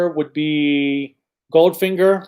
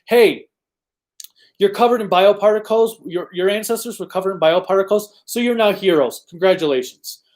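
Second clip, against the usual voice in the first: lightly mocking, higher-pitched announcement; mock hero recruitment; 4 semitones higher than usual. Streamer imitating the show recruiting its heroes, mock announcement. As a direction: breeze through it like a throwaway origin story.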